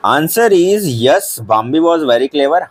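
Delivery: dictating pace; teacher dictating the answer; slow dictation. Shown as a demonstration. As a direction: read the answer word by word, very slow. Reading answer slowly.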